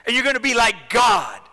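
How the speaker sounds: high, loud scoffing voice; mocking tempter. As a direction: laugh off her fear, loudly. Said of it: "the voice says".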